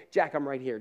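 a gentle, hushed promise; quietly soothing someone who is struggling; soft reassurance. Pretend. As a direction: say it softly, close to the ear. Voices Jesus comforting the believer.

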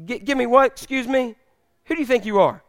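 mildly indignant, taken-aback woman; annoyed. Acted. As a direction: act lightly affronted by the request. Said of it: "She's annoyed".

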